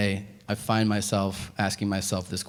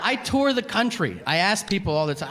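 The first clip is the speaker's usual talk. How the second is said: laughing; 8 semitones higher than usual. Real, not acted. High laughing lead-in.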